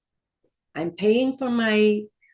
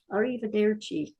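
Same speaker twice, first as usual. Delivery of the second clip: wrong language joke; 3 semitones higher than usual. Pretend. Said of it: "No, don't say arrivederci".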